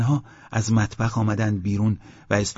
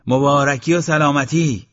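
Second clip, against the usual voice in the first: raised, high festive call; loud congratulation; 6 semitones higher, 7 dB louder than usual. A narrator's reading. Eslam congratulates the cheering wedding crowd, loudly. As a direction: proclaim good wishes to the whole crowd. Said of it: "اسلام با صدای بلند گفت".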